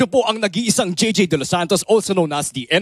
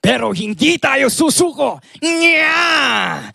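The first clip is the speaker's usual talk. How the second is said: loud, higher rallying cry; rallying shout impression; 6 semitones higher, 3 dB louder, slower than usual. Impressionist doing an iconic rally shout, loud. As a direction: shout it like a famous speech. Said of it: "iconic person pa".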